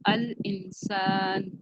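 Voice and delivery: अल इंसान stretched out slowly; slow model reading. Shown as a demonstration. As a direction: spell अल इंसान out slowly for learners. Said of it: "और एक word आप लगाएंगे तो क्या हो जाएगा".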